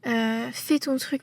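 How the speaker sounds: reassuring. Retold or imitated. School staff reassuring a student about a practice exam, softly retold. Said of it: "les personnes me rassurent énormément".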